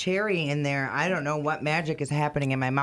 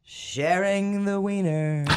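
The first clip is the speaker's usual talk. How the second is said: laughing; 4 semitones higher, slower than usual. Real, not acted. Joking, laughing.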